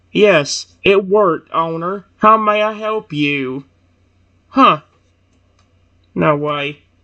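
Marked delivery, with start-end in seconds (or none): 0.2-3.7 slow, mechanical robot speech. Voicing a robot answering its owner: robotic voice. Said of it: "do I need to do the robotic voice?".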